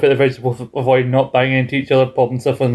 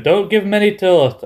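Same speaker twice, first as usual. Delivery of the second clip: higher-pitched mock telling-off; acted scolding; 7 semitones higher than usual. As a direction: put on a high, insistent warning. Acting the scolding line from show.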